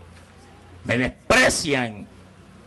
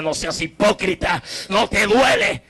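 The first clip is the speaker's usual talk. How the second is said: raised rebuke; 4 semitones higher than usual. Retold or imitated. God scolding Wilmer for hypocrisy, raised rebuke.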